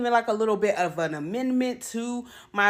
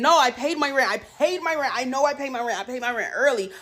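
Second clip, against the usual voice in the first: panicked thought; 3 semitones higher than usual. Retold or imitated. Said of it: "I was freaking out because I'm thinking".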